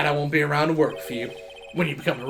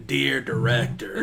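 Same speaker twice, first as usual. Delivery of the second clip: slow Southern drawl on "Dear director"; slower than usual. Retold or imitated. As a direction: drawl it like a Texan letter writer. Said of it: "Very southern drawl".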